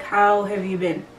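understated, casual retold greeting; nonchalant. Father answering his crying child, nonchalant imitation. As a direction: toss the question off without concern. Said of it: "he was just so nonchalant".

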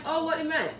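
a hint of surprise, up high; high surprised voice. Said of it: "I'm like".

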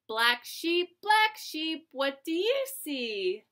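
singsong picture book reading; lilting read-aloud for little kids; reading to a toddler. Acted.

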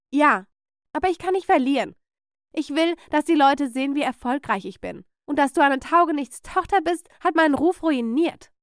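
irate mother, high and forceful; angry rant. Acted. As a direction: berate your daughter for ruining your name. Aunt rants at her daughter.

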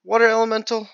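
high, pained moaning; high wail of despair. Real, not acted. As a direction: whine in defeat to the viewers. Despair after losing.

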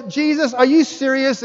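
high, disbelieving Jesus, are you serious; incredulous question. Retold or imitated. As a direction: ask in shocked disbelief. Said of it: "I go".

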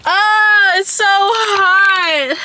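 loud, drawn-out groan about the heat; loud heat complaint. Real, not acted. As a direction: moan it out loud and slow.

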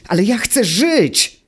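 high, desperate cry of a small creature; shrill squeaky plea to live; desperate shout. A narrator's reading. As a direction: scream it like your life depends on it. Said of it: "krzyknął Automateusz".

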